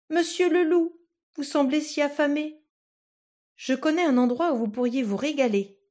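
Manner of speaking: put-on a tiny boy flattering a wolf; coaxing little Tom. Tom sweet-talks the wolf inside its belly, coaxing high voice.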